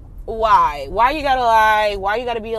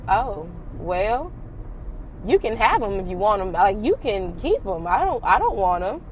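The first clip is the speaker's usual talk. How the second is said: dismissive; 2 semitones lower than usual. Retold or imitated. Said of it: "And I said it like that".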